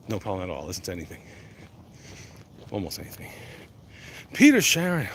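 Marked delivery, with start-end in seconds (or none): 4.3-5.1 loud, high shout-out; excited call-out. Pretend. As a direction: hype the viewer's name. Greeting viewer with mock hype.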